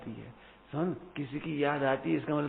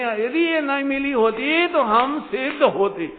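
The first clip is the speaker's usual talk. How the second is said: louder, slow, weighty; forceful guru's answer; 8 semitones higher, 8 dB louder, slower than usual. Retold or imitated. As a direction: deliver the guru's reply like a thunderclap. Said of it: "ऐसे शब्द मिलेंगे". (ज़ोरदार, धीमा, गुरु का उत्तर)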